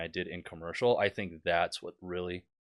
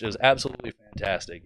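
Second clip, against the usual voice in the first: mock-approving, emphatic sarcasm; sarcastic praise. Real, not acted. Student pilot reviewing a useless tutorial video, sarcastic. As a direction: praise it without meaning a word. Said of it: "I'm being sarcastic".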